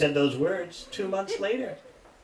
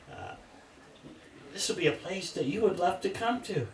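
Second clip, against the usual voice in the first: higher, coaxing woman's voice; persuasive lady devotee; 3 semitones higher than usual. Retold or imitated. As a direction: sell the new building to him. Lady selling the new center.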